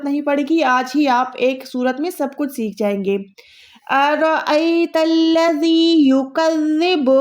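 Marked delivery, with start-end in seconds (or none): 3.9-7.2 slow chanted अरअयतल्लज़ी युकज़्ज़िबु, soft "dh" for z; युकज़्ज़िबु with a held, soft doubled "dh"; soft zaal recitation. Shown as a demonstration. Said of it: "दाल को आपने यहाँ पर soft अदा".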